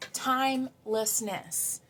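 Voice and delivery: "timelessness" drawn out slowly, each syllable lingered on; slow savoured word. Shown as a demonstration. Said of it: "uh, timelessness".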